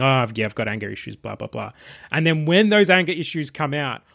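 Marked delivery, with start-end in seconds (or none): 0.0-1.7 low, tired mumbled recital; weary and tired. Retold or imitated. Sheriff admits anger issues at AA meeting, mildly weary. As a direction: imitate someone wearily going through the motions, trailing off softer. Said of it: "a bit weary and tired".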